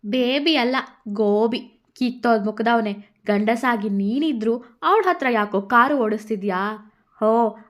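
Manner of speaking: mock him, then lecture; Radha mocking anger. Radha scolds the drunk man, loud and scornful.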